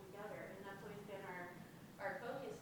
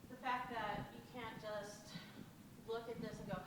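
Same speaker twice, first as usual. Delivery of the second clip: teacher voice. Real, not acted. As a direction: clear projecting classroom voice. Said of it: "trying to use my teacher voice".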